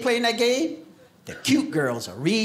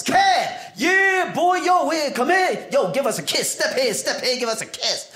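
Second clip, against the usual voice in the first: higher, louder, calling out to the grandson; loud New York grandma greeting; 7 semitones higher than usual. Retold or imitated. Grandma greeting her grandson at the New York door, loud and high. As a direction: shout a welcome from the doorway like an excited grandma. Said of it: "open the door in New York".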